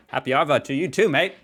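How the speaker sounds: loud, high mock Aussie accent; Australian accent. Shown as a demonstration. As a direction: call it out in an exaggerated Australian accent. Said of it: "I can copy an Australian accent".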